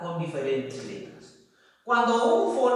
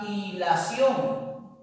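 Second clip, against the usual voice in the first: hilación said slowly and evenly; teacher dictating hilación slowly; slow example word; much slower than usual. Shown as a demonstration. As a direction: lay out hilación slowly for the class. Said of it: "la palabra".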